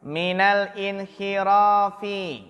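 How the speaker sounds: teacher models Minal inhirafi, min and al run together; joined reading minal. Shown as a demonstration. Teacher showing students the joined reading, slow and careful. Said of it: "Perhatikan cara bacanya".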